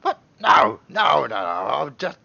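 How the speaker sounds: high, loud, hammed-up denial; high panicked denial. Drunk man to the accuser, high hammed-up panic. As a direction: squeak out a frantic denial. Drunk denies being cultist.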